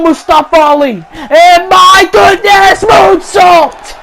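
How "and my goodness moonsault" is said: high, loud and slowed, then bursting; amazed shout. Real, not acted. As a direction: erupt at the moonsault. Springboard moonsault surprises commentator.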